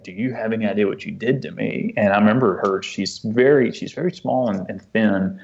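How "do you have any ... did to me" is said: lightly voiced little girl's retort, falling at the end; a hint of a hurt child, close to the usual voice; child answering back. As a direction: imitate a small child throwing the question back, understated. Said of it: "back to me in her little way".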